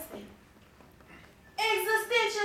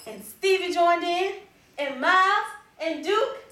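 normal talking voice

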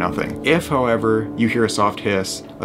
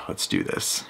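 nervous night vlog whisper; 8 dB quieter than usual. Real, not acted. Bracing before the ritual.

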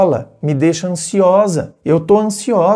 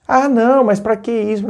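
put-on evasive boyfriend; 6 semitones higher than usual. Evasive boyfriend dodging the question.

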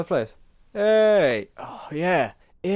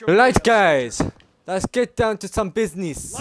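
louder, mock-serious put-on announcer voice; odd put-on voice; 5 semitones higher, 4 dB louder than usual. Gamer opening the match to viewers, mock-serious put-on voice. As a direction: put on a silly gamer voice to start. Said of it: "I don't know why I'm speaking like that".

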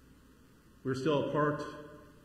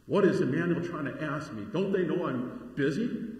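mildly mock-indignant protest, a bit louder and higher; indignant complaint; 3 semitones higher, 5 dB louder than usual. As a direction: imitate a put-upon churchgoer objecting. Acted indignant complaint of congregant.

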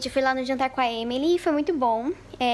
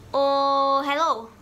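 calling out; 7 dB louder, much slower than usual. Real, not acted. Shooing cat.

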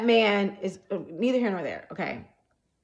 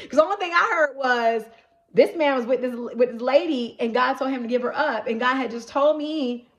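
louder, higher, rushing realization; excited; 5 semitones higher, 4 dB louder than usual. Real, not acted. Telling viewers her realization, louder and higher. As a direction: build the excitement of the discovery.

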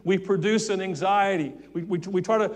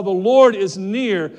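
slow and louder, each word weighted; emphatic scripture; 7 dB louder, slower than usual. Acted. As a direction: lean on every word.

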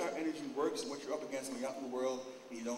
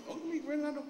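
mock cheery vampire; 13 semitones higher than usual. Mocking the energy vampire.

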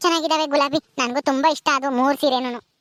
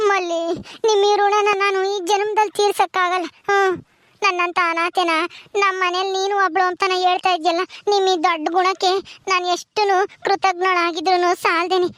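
crying gratitude, humbled; tearful thanks; 4 semitones higher than usual. Acted. Orphan maid thanks Malli for family love, tearful. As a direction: thank her through tears. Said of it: "ಅಳಬಾರ್ದು, ಕಣ್ಣೀರ್ ಒರೆಸ್ಕೆ".

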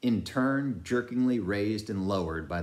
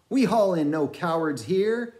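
scornful shout; 11 semitones higher, 7 dB louder than usual. A narrator's reading. Repeated scornful cry.

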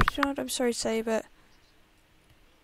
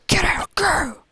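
higher, louder yell; shout; 7 semitones higher, 7 dB louder, slower than usual. Acted. Guard chasing the intruder out, loud shout. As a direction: drive them out with a yell.

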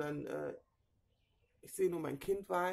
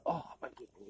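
pained groan; 5 semitones lower, 5 dB quieter than usual. Real, not acted. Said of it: "ich kann so nicht auf dem Bauch".

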